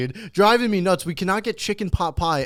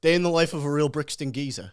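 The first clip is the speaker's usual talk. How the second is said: mock British accent. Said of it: "The, the British are".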